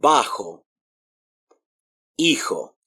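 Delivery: Bajo, Hijo with j as a strong h; "BAH-kho, EE-kho" for Bajo, Hijo; strong Spanish J. Shown as a demonstration. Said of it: "but stronger".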